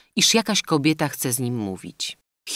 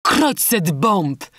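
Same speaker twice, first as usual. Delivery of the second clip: very slow, higher, louder oath; captain Falcon swearing over the poisoned maid; captain's exclamation; 5 semitones higher, 5 dB louder, much slower than usual. A narrator's reading. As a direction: drag out the curse in a new voice. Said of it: "wykrzyknął kapitan Falcon".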